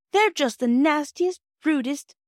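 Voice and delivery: high, loud, slow outrage; indignant. A narrator's reading. Phyllis, flaming cheeks, calls boys names, indignant. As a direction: stress each insult in hot indignation. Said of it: "said Phyllis with flaming cheeks".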